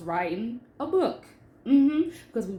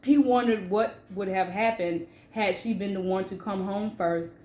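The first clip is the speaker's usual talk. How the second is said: steady reading of her own novel; story reading. Acted. Author reading her novel to listeners, measured narration. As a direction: read the chapter aloud to the audience.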